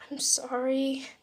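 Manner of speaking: quiet, tight-throated sorry; holding back tears. Acted. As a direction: swallow the tears as you apologize. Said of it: "holding back tears".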